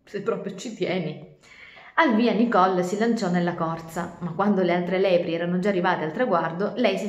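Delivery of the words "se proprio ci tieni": smug snicker. Acted. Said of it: "ridendo sotto i baffi".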